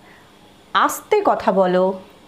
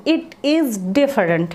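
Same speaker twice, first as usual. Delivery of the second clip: slow model phrase; much slower than usual. Shown as a demonstration. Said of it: "অর্থাৎ".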